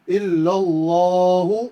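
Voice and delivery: اللہ full and heavy, stretched one alif; heavy Allah. Shown as a demonstration. Teacher has students repeat the heavy Allah. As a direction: recite اللہ thick, drawn out. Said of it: "موٹا کر کے پڑھیں گے".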